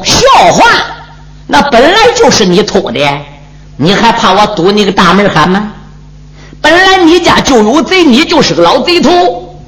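lightly voiced cocky warrior; brash hero. Hero retorts at the old man.

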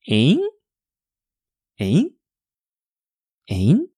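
short "诶？" with a sharply rising tune; questioning interjection. Shown as a demonstration. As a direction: toss out "诶？" as a puzzled huh. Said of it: "就是要用这个语气".

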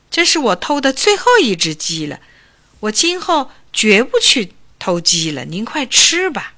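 put-on young man desperately begging the old doctor to eat; earnest pleading. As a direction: plead with him to take the gift. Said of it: "苦苦哀求说".

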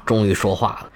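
ordinary delivery, nothing marked

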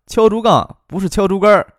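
敲竹杠 said firmly, no erhua; correcting 敲竹杠. Shown as a demonstration. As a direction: stress 敲竹杠, drop the 儿 of 竹竿儿. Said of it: "语气要重些，不能带儿化音".

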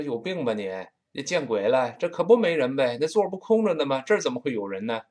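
lightly voiced irritated foreigner, fast; mock annoyed foreigner. Foreigner scoffing at a strange question, mild mock irritation. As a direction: toss it off like a puzzled, irritated foreigner. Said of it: "这老外听完就疯了".

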